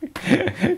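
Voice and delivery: squeaky laugh through tears; high tearful laugh. Real, not acted. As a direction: laugh till your eyes water. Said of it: "tearing up at the eyes from Ivana".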